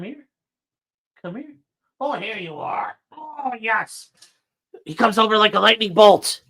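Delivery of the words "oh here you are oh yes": high happy greeting to the dog; delighted pet talk. Real, not acted. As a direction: gush over the arriving dog.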